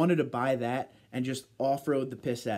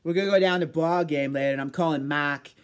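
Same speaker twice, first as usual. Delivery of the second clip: loud put-on Boston sports fan; hammed-up Boston ballgame talk; Boston accent; 2 semitones higher, 4 dB louder than usual. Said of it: "Little Boston talk time".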